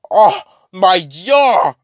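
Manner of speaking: high, loud, drawn-out cry; acted howl of outrage; anguished wail. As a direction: wail it slowly as if badly hurt. Carnage loses his jaw.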